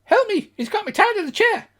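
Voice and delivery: high, loud desperate yell; cry for help. Acted. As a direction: scream for help from behind the door. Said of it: "You hear a voice from inside".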